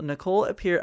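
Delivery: measured news-anchor read; newscaster voice. Shown as a demonstration. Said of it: "I sounded like a newscaster just then".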